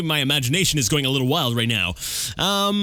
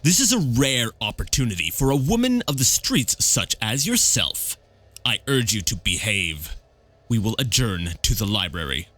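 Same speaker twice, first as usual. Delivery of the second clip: measured, formal reading of a stern host; stern host, mildly voiced; 3 semitones lower than usual. Host coolly warning a street woman to behave, mildly stern. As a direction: lightly play a controlled, commanding patriarch. Reads character's dialogue aloud.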